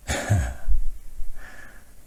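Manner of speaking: voiceless, breathy huff of laughter; rueful exhaled laugh. Acted. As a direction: let out a heavy, breath-only laugh. Recalling she assumed the worst.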